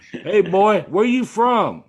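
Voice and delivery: loud, high mock Southern drawl; mock Southern greeting; southern local. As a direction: play the redneck local sizing up a Yankee.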